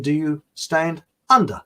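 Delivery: "stand" and "under" set apart as two words; split into STAND UNDER. Shown as a demonstration. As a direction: pause between "stand" and "under", stressing each. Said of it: "he's really saying".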